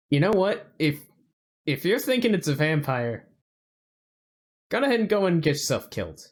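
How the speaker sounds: slight southern twang, dismissive; southern accent. Acted. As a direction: wave them off in a mild southern accent. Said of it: "I don't know why he's getting a southern accent".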